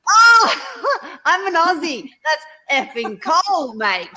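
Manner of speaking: high, loud comic wail; mock wailing complaint. Aussie guest protesting the cold, mock wail. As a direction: cry out in hammed-up outrage, laughing.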